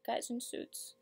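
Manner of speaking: very soft, restrained reproach with long pauses; monologue character, hurt. Acted. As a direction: accuse them under your breath.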